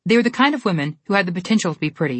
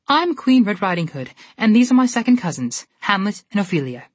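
grand; 4 semitones higher, 3 dB louder than usual. Acted. Red grandly introduces.

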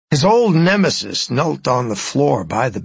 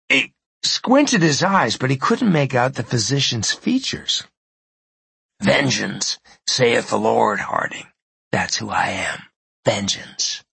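menacing villain; 2 semitones lower than usual. Acted. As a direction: savor the revenge calmly. Spider menaces dying man.

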